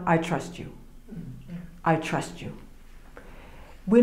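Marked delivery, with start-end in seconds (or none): 0.1-2.5 hushed, softer words of trust to God; quiet prayer. Retold or imitated. Speaking to God in prayer, softly and sincerely.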